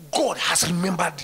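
loud firm proclamation; shouted declaration. Shown as a demonstration. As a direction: shout it to the congregation. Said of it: "repeated as whisper".

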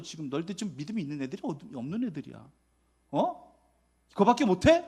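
scornful teacher. Pretend. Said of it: "이런 식으로 아마 이야기 표현하고".

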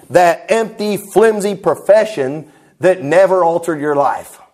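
slow, weighty imitation of a preacher's line; slow quoted preaching. Preacher quoting another man's sermon line, slow and declamatory. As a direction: stretch it out phrase by phrase, oratorically.

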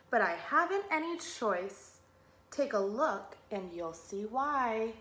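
lilting, measured storybook rhyme; children's story reading. A narrator's reading. Teacher reading a rhyming fish book to children, storytelling. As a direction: read it in bouncy verse, sinking at the end.

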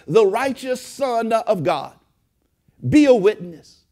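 preacher's cadence with short punchy calls; preaching. Acted. Pastor exhorting church after store story, preaching.

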